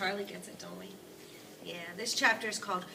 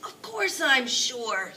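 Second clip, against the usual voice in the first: put-on louder, higher, slow, emphatic old man; excited sputter; 5 semitones higher, 11 dB louder, much slower than usual. A narrator's reading. Grandpa Joe insisting to Charlie, sputtering excitedly. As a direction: brush the doubt aside. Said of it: "sputtered the old man excitedly".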